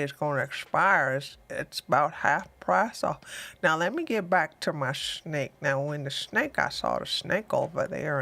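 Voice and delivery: lazy deep slowpoke voice, easing along; turtle voice. Pretend. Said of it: "I sound like the turtle".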